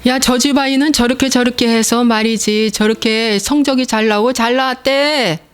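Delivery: a hint of a comparing mother, rising at the end; nagging mother. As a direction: prod the child like a mom. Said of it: "하고 말하면은".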